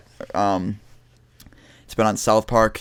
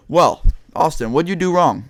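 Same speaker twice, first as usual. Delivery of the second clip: lightly voiced principal, pitched up; school principal; 5 semitones higher than usual. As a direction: imitate a principal questioning a pupil, higher. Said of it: "they sat me in the principal's office".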